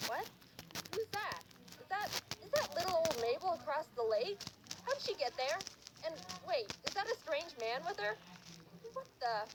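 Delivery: lady's baffled self-talk; puzzled lady. Acted. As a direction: peer and question in growing alarm. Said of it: "point of view of this lady".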